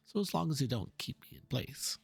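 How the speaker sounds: worried artist pacing over his canvas; fretting painter. Acted. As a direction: mutter through the problem like a frustrated painter.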